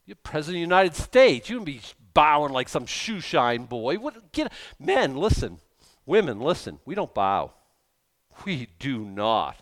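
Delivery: indignant scolding, bursts of loudness; indignant retort to a bowing leader; disgusted protest. Retold or imitated. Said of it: "I was so disgusted. I thought, like".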